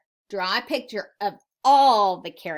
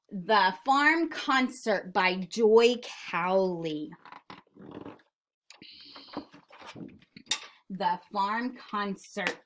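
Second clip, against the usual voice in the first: read-aloud title; slower than usual. Acted.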